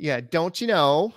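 a quick bit of Fargo-style Minnesotan; Fargo Minnesota accent. Acted. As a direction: toss off a Minnesota "don't you know". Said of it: "That's from Fargo".

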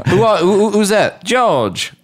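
high-pitched comic name-calling; mock household voice. Riffing on George Foreman household, high mock-puzzled voice.

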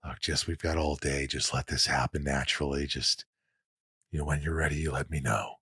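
low, soft reassurance, retold; calm a nervous actor, softly and low; gentle, relaxed director. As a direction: quietly imitate a kindly director. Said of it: "gentle, relaxed atmosphere".

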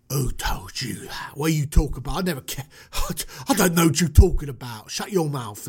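put-on British accent, flustered denial; Christian Bale. Moses denying the killing in a British street accent. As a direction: deny it like a London tough. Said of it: "I'm going with the Christian Bale".

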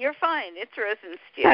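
Rosenstiel as Rosen-steel; name correction. Shown as a demonstration. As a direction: say Rosenstiel with a clear long ee. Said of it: "Did I say your last name correctly".

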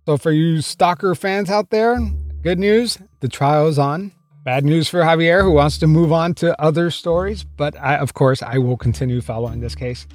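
podcast host voice-over, steady and clear; podcast narration. Acted. Host narrating a true-crime update to listeners, clear read.

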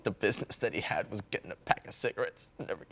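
soft, fast, choked-up delivery; words catching in the throat. Acted. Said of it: "the choked up voice is so good".

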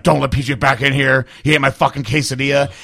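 retold angry order. Dave banning him from the room, mildly angry retelling. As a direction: imitate a mad man's complaint, mildly heated. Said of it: "Dave was mad as fuck".

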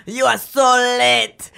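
high, loud, slow Russian-Asian mishmash accent; angry mixed Russian-Asian accent. Shown as a demonstration. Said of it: "Asian and Russian and, like, angry".

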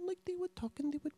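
soft, high, light imitation of women chatting; imitating soft talk. Imitating Russian women overheard on the bus, very softly. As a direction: lift the pitch and drop the volume right down. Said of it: "they would speak so softly".

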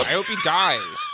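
high laugh through the words. Real, not acted. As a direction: giggle it out in disbelief. Joking about Prince Philip.

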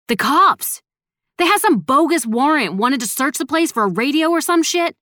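high, heated, indignant telling; agitated report. A narrator's reading. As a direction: blurt it out high and worked up. Breaking urgent news of a raid.

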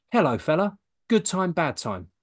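cheeky East London phone opener; East London wide boy. Retold or imitated. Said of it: "it came out in his words".

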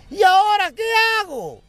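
high, loud desperate cry; panicked shout. Acted. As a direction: scream it running away. Wife fleeing gorilla calls out.

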